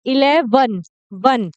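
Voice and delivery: इलेवन broken up, ending in a separate "van" with short "uh"; last syllable shown. Shown as a demonstration. Teacher points out the short vowel, इलेवन then वन alone. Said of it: "वन में अ का sound आ रहा है".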